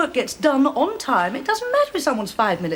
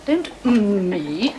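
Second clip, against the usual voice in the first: stern rebuke; much slower than usual. Acted.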